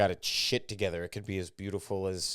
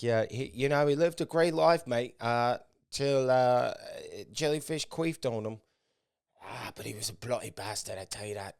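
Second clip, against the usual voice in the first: bad Australian accent; 3 semitones higher, 4 dB louder than usual. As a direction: do a shaky attempt at an Australian accent. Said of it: "can't really do the Australian accent".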